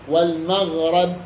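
والمغرب drawn out slowly, short a after the ر; فتح الراء. Shown as a demonstration. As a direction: slowly say wal-maghrab for والمغرب. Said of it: "والقياس فتحها فيهما". (والمغرب بفتح الراء ببطء)

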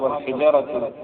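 والحجرة read with i after jim, a after ha; vowelled reading. Shown as a demonstration. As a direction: say والحجرة with a kasra, short i, on the jim. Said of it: "بكسر الجيم".

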